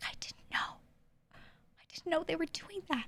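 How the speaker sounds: soft, breathy, barely voiced hushed whisper. Retelling a favorite interview moment: whispering like Cynthia Erivo. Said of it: "Cynthia whispering is my favorite part".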